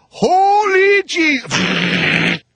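high, drawn-out shriek of terror; panicked scream. Retold or imitated. Bystanders screaming as lightning hits, a high drawn-out shriek. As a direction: scream it like the sky just exploded.

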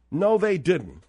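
winded, tired repeat; breathless after arguing; out of breath. Real, not acted. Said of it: "I'm out of breath talking to you clowns".

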